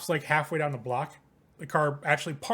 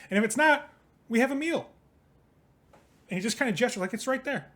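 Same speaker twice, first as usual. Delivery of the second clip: a lightly voiced pushy hustler, raised pitch; Jason's eager voice; 4 semitones higher than usual. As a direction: sell it high and eager like a smooth talker.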